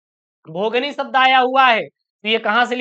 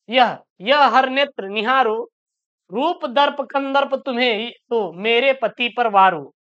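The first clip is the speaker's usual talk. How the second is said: slow, measured verse reading with drawn-out words; poem recitation; slower than usual. Acted. Teacher reading a Hindi poem to students, slow recitation. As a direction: recite line by line, pausing between phrases.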